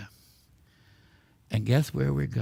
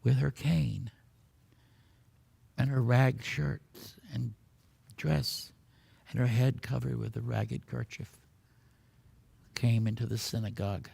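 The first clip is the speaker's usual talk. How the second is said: measured, hushed storyteller; solemn story narration; 3 semitones lower, 5 dB quieter than usual. A narrator's reading. Tells a solemn miracle story.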